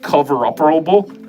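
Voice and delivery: Cover-upperable? rising up as if testing the new word; delighted questioning echo. Shown as a demonstration. Streamer repeats his own made-up word, amused questioning rise. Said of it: "I like that".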